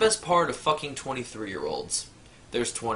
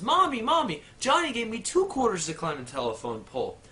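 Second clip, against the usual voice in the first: put-on little girl voice; 7 semitones higher than usual. Little girl runs home.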